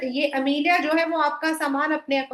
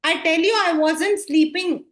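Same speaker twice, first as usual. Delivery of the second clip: louder, slow, firm denial; insistent protest; 5 semitones higher, 5 dB louder, much slower than usual. Acted. Old grandfather protesting to his family, firm and loud. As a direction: dig in, refusing to be doubted.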